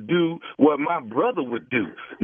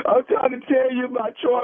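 higher, breaking as if holding back tears; mock sob through the words; fake crying; 8 semitones higher than usual. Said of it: "Are you, are you crying, man?".

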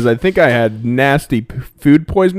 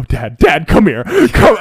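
urgent calls, higher and louder; retold yell; 5 semitones higher, 5 dB louder, slower than usual. Calling his dad across the soccer field, urgent yelling. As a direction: yell for dad to come over. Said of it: "I'm literally yelling at him".

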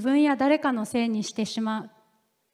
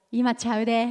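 Kansai dialect. Retold or imitated. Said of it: "関西弁で言うとですね".

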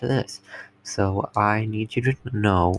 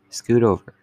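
playful demand; 5 dB louder than usual. Acted. Insisting partner make room.

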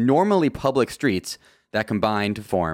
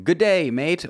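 mock Australian accent; 7 semitones higher than usual. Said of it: "not going to be saying".

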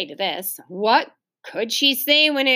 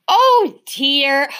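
sighing; 4 semitones higher, 5 dB louder, slower than usual. Acted. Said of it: "sighed Mother".

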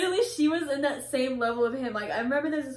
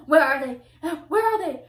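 mock impatient grandma, insistent; imitated yelling demand; 2 semitones higher, 6 dB louder than usual. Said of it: "she was yelling".

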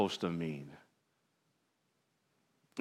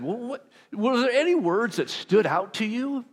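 asking the group; 10 semitones higher than usual. Retold or imitated. Pastor retells asking his group.

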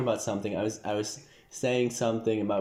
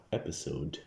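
deep dramatic announcer voice; movie trailer voice; 5 semitones lower, 8 dB quieter than usual. Shown as a demonstration. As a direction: boom it like a trailer narrator. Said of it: "That was like a trailer voice".

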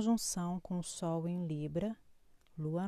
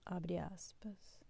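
whispered quote-mark cue; dictating; 11 dB quieter, much slower than usual. Acted. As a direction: breathe it slowly, unvoiced.

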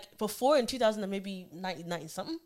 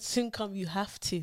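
slowed down so it is understood; drawn-out, patient correction; clarifying repeat; 6 dB quieter, slower than usual. Real, not acted. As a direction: repeat it slowly and deliberately. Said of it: "No, I said".

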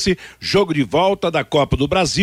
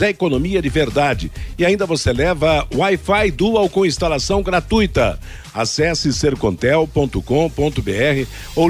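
upbeat radio ad read; hard sell ad. Acted.

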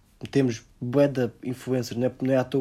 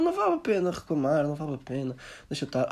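mock whiny resignation; 3 semitones higher than usual. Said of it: "somos assim para tudo".

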